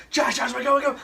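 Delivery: high, loud, frantic retelling; panicked wake-up call. Retold or imitated. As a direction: act out rousing a friend in a panic. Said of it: "I was super scared".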